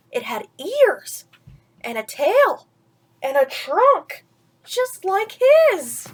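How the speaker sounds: building read-aloud, slowing on the reveal; storybook narration. A narrator's reading. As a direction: savour each surprise for the child.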